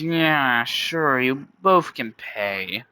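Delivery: grudgingly agree, drawing out the last words; a touch of annoyed reluctance. Acted. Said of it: "annoyed, says".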